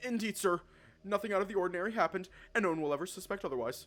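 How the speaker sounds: high, loud, frantic, panicked voice. Reading a story aloud, a choked waiter assuring the boss: frantic tone. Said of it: "His frantic tone".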